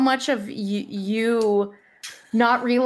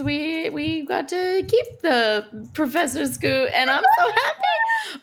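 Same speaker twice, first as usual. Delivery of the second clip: laughing happily; 4 semitones higher than usual. Real, not acted. Gushing about keeping the creature.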